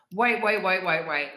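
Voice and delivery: quick loud repeated wait; excited wait. Real, not acted. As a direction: stop them, excited. Excited interruption.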